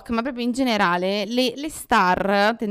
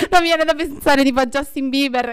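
talking through real laughter, higher and louder; laughing; 4 semitones higher, 4 dB louder than usual. Real, not acted. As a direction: explain it while still giggling. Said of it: "Che te ridi?". (parlando tra le risate)

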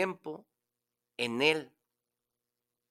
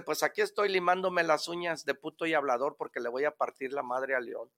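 little monkey; 4 dB quieter than usual. Acted.

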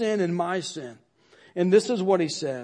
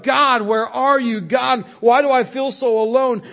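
anguished cry; 4 semitones higher, 5 dB louder than usual. Retold or imitated. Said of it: "and he cried out".

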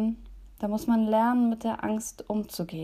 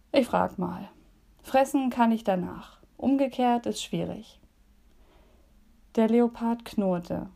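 put-on gentle storyteller voice for young listeners; cosy bedtime story read aloud; reading a story to children. A narrator's reading. Reads children's story in devotion.

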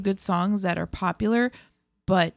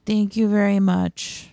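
wooden; 3 dB louder, slower than usual. Real, not acted. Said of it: "that was so wooden".

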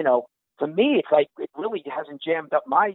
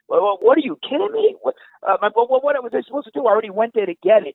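a mild mock yell, higher; retold yelling; 4 semitones higher, 3 dB louder than usual. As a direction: imitate wife yelling back. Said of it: "she's yelling".

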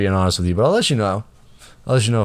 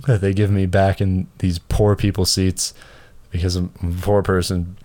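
sarcastic taunt. Retold or imitated. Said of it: "I was like".

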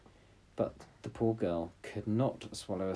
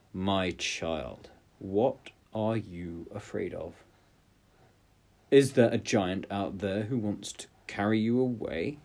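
gentle king. Acted. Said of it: "and he said".

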